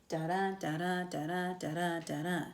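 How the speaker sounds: da-da in an even, sing-song alternating beat; rhythmic beat. Shown as a demonstration. Teacher demonstrating iambic pentameter to students, da-da beaten out rhythmically. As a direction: chant each da-da as a regular metric foot. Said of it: "if you wanted to do it really rhythmically".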